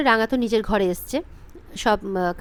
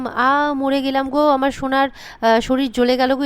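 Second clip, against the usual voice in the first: slow, hammed-up theatrical wail; mock wailing; 3 semitones higher than usual. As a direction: overplay the pain like a stage drama, slowly. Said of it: "ময়না তো যাত্রাপালা শুরু করেছে". (ধীরে, নাটুকে ঢঙে নকল বিলাপ)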